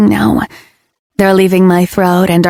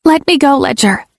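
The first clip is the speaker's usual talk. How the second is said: 高声急切地恳求; breathless, high pleading to be let go; desperate plea; 6 semitones higher than usual. Acted. Pinned down, pleading to be released.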